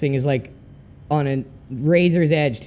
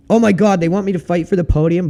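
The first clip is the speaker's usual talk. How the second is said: surprised; 5 semitones higher, 6 dB louder than usual. Real, not acted. Shocked at being asked for podium.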